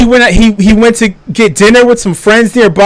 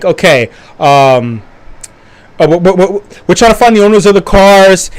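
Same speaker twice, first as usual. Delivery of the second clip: lower, calm police officer voice; calm cops; 3 semitones lower than usual. Retold or imitated. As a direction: play the cop settling things down. Cops speaking, retold.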